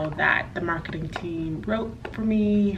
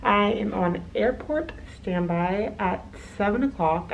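balaclava; 4 dB quieter than usual. Real, not acted. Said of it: "I can't talk with this mask on".

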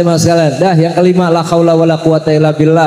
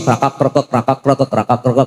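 crackling mic imitation; 3 semitones lower than usual. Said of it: "mik musola bunyi".

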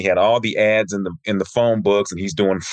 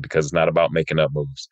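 said nicely; 6 semitones lower than usual. Retold or imitated. Sensei explaining to a student about made-up moves, said nicely. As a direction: imitate a kind teacher gently correcting a student. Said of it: "he said it so nicely".

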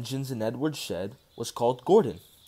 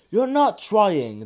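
slow, higher, louder scolding; severe telling-off; 6 semitones higher, 5 dB louder, much slower than usual. A narrator's reading. Crew scolds the stubborn engine, slow and stern. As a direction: drag each word out sternly. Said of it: "they told him".

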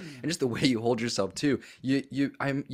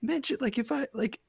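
petrified; 10 semitones higher than usual. Retold or imitated. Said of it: "and I was petrified".

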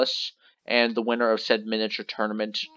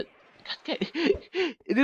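frustrated laughing curse; 14 semitones higher, slower than usual. Real, not acted. Failed catch again.

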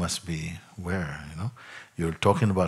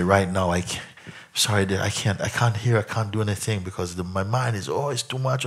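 imitating overwhelmed person. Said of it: "I've heard people speak like this".

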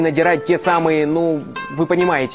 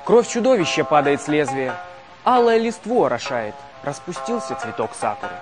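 poem recitation. Pretend. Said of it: "Как гласит этот древний японский стих".

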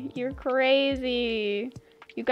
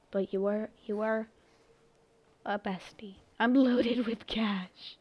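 whisper; 4 semitones lower, 9 dB quieter than usual. Pretend. Streamer joking to chat about her money, whispered. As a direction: lean in and whisper it. Whisper then laughing repeat.

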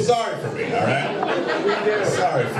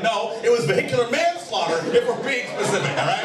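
agitated correction; 5 semitones higher than usual. Retold or imitated. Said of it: "I got really agitated".

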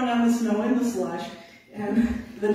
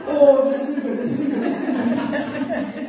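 repeating it through laughter, louder and higher; laughing panic; 5 semitones higher, 6 dB louder, slower than usual. Retold or imitated. Teller voicing Marty on runaway sled, laughing panic. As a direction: giggle out Marty's alarm, slowing down. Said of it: "the look on his face like".

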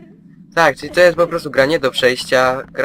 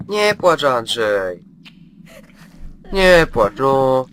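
mock comfort; much slower than usual. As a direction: pretend to soothe, pitched up. Mock comforting game monster. (udawane pocieszanie potwora, wysoko)

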